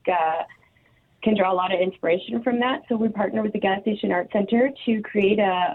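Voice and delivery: distant, thin speakerphone sound. Real, not acted. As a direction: far from the mic, on speaker. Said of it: "sounds like you're really far away".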